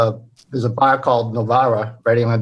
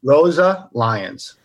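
slow, drawn-out "Rosa Lions" in a Boston accent; 2 semitones higher, much slower than usual. Shown as a demonstration. Guest repeating the bar name in his Boston accent. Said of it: "Say the name again".

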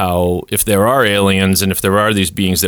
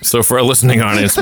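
usual speaking voice

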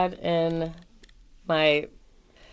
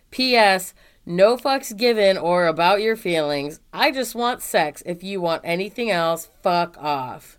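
all in one breath; slower than usual. Shown as a demonstration. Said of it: "this is all one run-on sentence, so I'm going to try to read it".

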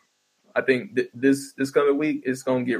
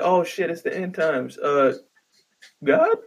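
slow, hushed, put-on voice rising to a high plea; mock dread; 4 semitones higher, much slower than usual. Comic imitates people at the end times calling God, mock fear. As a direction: pretend to panic and call out to the sky. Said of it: "They'd be like".

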